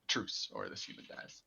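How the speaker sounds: low whispered goblin rasp; raspy goblin whisper. Acted. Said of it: "kind of a creepy, raspy goblin voice".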